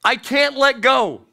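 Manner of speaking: sudden high cry of no; cling on in panic; panicked refusal. Retold or imitated. Dangling person refusing rescue, high panicked cry. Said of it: "you say".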